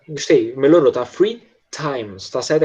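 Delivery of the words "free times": "Free times" with a puff of air on the T; aspirated T. Shown as a demonstration. Teacher showing a pupil "Free times", T softly blown. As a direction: blow lightly through the T in "times". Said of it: "esse T ... ele é meio soprado".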